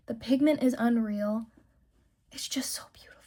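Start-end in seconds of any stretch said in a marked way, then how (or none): 2.3-3.1 whispered in awe, very soft; breathy whisper. Real, not acted. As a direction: breathe it out like a secret. Admiring the blush.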